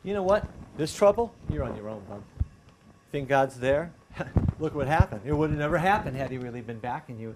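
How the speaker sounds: lightly acted sneering tempter; taunting enemy. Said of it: "enemy loves to kinda say".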